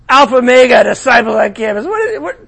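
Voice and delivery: loud scoffing laugh; mock derision; laughing mockery. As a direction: scoff at the disciples. Mocking campus students.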